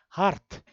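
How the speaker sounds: hart with a strongly sounded R; clear Afrikaans R. Shown as a demonstration. Lecturer demonstrates the Afrikaans R to students, clearly sounded. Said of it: "jy hoor baie duidelik daai R".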